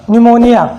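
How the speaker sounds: निमोनिया starting straight on n; teacher modelling निमोनिया, p left silent; silent-p pronunciation. Shown as a demonstration. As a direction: say निमोनिया with no p at the front. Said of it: "पी आ रहा है".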